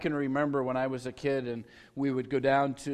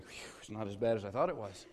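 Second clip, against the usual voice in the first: relieved sigh; 7 semitones lower, 9 dB quieter than usual. Retold or imitated. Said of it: "silent sigh of relief going".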